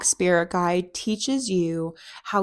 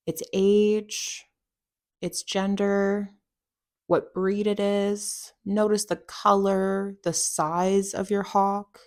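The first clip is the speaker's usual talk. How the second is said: measured meditation voice with long pauses; unhurried, guiding a listener through a visualisation; guided meditation. Acted. Guide leading listeners to picture their hawk, guided meditation.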